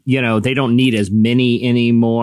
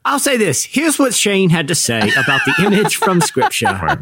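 laughing; 7 semitones higher than usual. Real, not acted. Host cracking up introducing clip.

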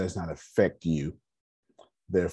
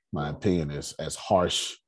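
raspy voice; 2 semitones lower, 3 dB quieter than usual. Real, not acted. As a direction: let the rasp carry it. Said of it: "as my raspy voice is".

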